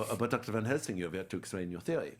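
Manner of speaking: put-on lightly German-accented scripted line. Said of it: "both talking in these German accents".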